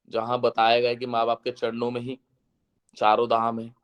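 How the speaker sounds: ordinary talk, nothing marked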